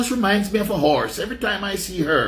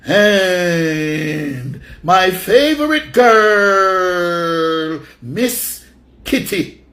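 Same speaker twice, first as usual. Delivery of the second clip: drawn-out shout; 4 dB louder, much slower than usual. Acted. Drawn-out announcer call.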